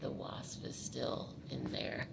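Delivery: slow strained whisper, swollen throat. Real, not acted. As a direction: barely get it out past the swelling. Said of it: "my throat is swollen".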